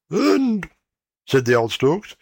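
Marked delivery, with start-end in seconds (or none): 0.1-0.7 put-on high, odd old stork voice; stork parent voice. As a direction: pitch up as a fussy old stork.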